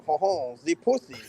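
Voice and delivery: mustache twirling villain. Retold or imitated. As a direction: purr it like a scheming villain. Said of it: "twirled his mustache and said".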